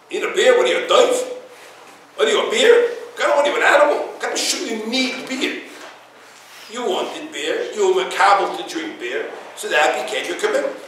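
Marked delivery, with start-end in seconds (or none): 0.1-5.6 incredulous mock scolding, laughing through it; mocking with laughter. Rabbi mocking a beer craver, laughing. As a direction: tease them while laughing.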